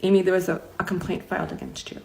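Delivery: quietly reluctant retelling; reluctant bad news. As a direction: deliver the bad news haltingly, trailing down. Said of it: "she can't even look at me".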